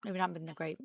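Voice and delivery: chewing while talking; words round a bite of food; mouth full. Real, not acted. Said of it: "this is me trying to talk with food in my mouth".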